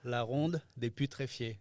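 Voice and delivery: La Ronde des Putréfiés said slowly and clearly. Shown as a demonstration. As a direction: take your time over La Ronde des Putréfiés. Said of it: "Say that again, slower".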